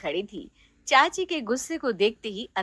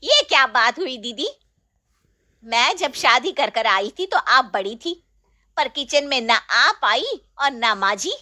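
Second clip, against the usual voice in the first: mild flare-up; 3 dB louder than usual. Acted. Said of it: "मानो बिफर ही जाती है".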